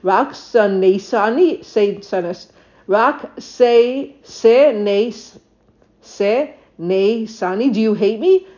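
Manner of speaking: halting mock sobs, syllable by syllable; stammered tearful plea, acted out; mock weeping. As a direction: imitate a weeping wife, words broken up. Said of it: "she's weeping and she's weeping".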